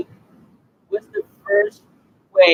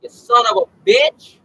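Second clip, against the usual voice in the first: angry shout; 6 semitones higher, 7 dB louder than usual. Acted. Scolding someone who hit him.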